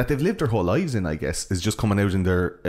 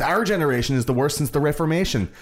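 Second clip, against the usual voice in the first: higher-pitched imitation of indignant disbelief; mock outrage, pitched up; incredulous, almost angry; 7 semitones higher than usual. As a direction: protest as if you can't believe it. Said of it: "incredulous and almost angry".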